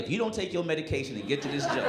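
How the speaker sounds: fast, dry mock impatience; exasperated aside. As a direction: hurry him along, fed up. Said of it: "And I was like".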